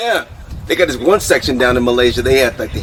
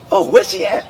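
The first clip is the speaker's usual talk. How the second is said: mock officer. Officer voiced high.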